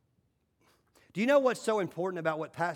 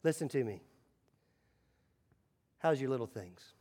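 sudden soft, low aside; hushed and intimate; 5 semitones lower, 7 dB quieter than usual. Real, not acted. Pastor leaning in to the mamas, quiet and low. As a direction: pull them in close and quiet. Drops voice after shout.

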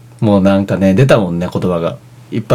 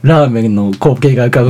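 ordinary talk

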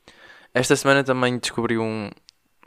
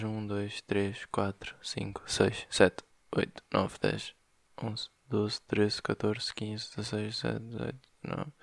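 counting to himself; 7 dB quieter, slower than usual. Real, not acted. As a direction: count quietly as if working it out. Counting back the weeks to himself.

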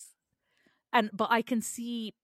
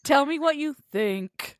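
deep dismissive voice; 4 semitones higher, 5 dB louder than usual. Shown as a demonstration. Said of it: "your voice going all deep".

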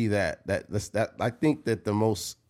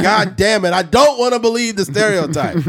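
mock exasperated yell; 7 semitones higher, 7 dB louder than usual. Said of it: "You like".

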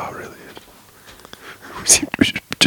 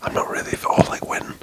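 soft ASMR whisper; hushed podcast whisper, breathy and close; 3 dB quieter than usual. Real, not acted. Whispers all through podcast.

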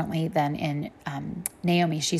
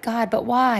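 retold complaining; 5 semitones higher, slower than usual. Retold own complaint to God.

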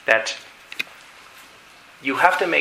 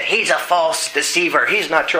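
lightly voiced demon denial; 2 semitones higher than usual. Demon argues with the preacher.

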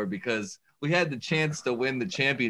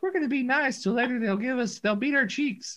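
put-on much higher, playful old-lady voice; mock old ladies; 11 semitones higher than usual. Quoting the winning ladies teasing the boys, high mock voice. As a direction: sweetly taunt as a granny bowler. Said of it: "They're like".

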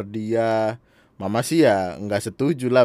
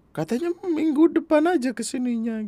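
high-pitched puzzled mother voice; surprised mother. Retold or imitated. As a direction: imitate a mother caught off guard. Voices mother surprised by early visit. (menirukan mama yang heran, nada tinggi)

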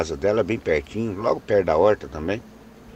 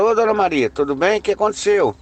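calling out; 10 semitones higher than usual. Retold or imitated. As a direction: call out to Dona Maria from a distance. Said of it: "E eu gritei pra ela".

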